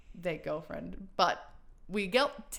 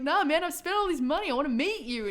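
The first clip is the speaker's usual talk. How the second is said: retold pleading; 8 semitones higher, 6 dB louder than usual. Retold plea to angry star.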